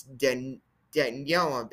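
"Daniela" said as dan-YELL-uh; "Daniela" sounded out as Dan-yella; corrected pronunciation. Retold or imitated. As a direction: break off after "Dan-", then say "Daniela" with a y-glide. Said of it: "she corrected me today on the phone".

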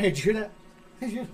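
loud, high mock-paranoid questioning; acted paranoia. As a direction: act out jumpy paranoia at full volume. Acting out sudden paranoia.

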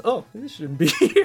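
amused retelling that dissolves into a laugh; quote breaking into laughter. Retold or imitated. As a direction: laugh your way through the imitated line. Retelling dark joke, breaks into laughter.

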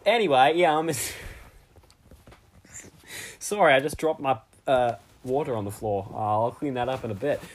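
bad Australian accent; Mister Aussie. Guest Mister Aussie answering the host, bad Australian accent. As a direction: put on a dodgy Aussie accent. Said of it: "bad impression of an Australian person called Mister Aussie".

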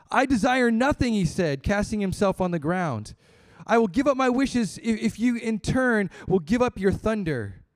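a hint of a terrified peasant pleading; frightened woodcutter. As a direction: beg the god to spare you. Terrified woodcutter begs Jupiter.

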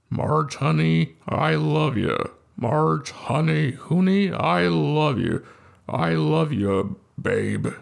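lightly voiced Homer, slow and low; a hint of Matthau as Homer, drawn out; slow, low mumbling husband, lightly done; Walter Matthau Homer. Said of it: "that's a Walter Matthau Homer".

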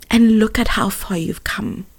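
soft, tender retelling; hushed, soothing comfort; gentle encouragement. Retold or imitated. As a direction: quietly encourage them. Gran's comfort, retold near tears.

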